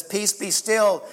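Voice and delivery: slow, calm command to the storm. Retold or imitated. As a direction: say it slowly and calmly, stilling the waves. Jesus calms the storm.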